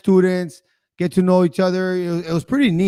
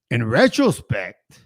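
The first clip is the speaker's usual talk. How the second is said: "in retrospect" drawn out slowly; slow musing; 3 semitones lower, much slower than usual. Real, not acted. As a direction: ease into "in retrospect" like a thought forming. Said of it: "I think he would have".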